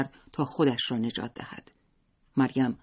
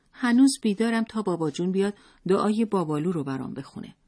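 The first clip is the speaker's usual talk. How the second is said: a hint of a small child, pitched higher; higher storybook child voice; lightly voiced child; 6 semitones higher than usual. A narrator's reading. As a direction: lightly play a child waiting up for dad. Narrator voices the child Zalmai.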